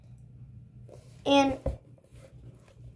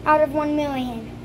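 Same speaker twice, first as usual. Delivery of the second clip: excited rating; 3 semitones higher than usual. Real, not acted. Mock food critic rating.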